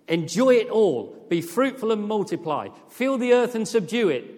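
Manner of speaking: a booming divine blessing; grand proclamation. Acted. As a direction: proclaim it like God blessing creation.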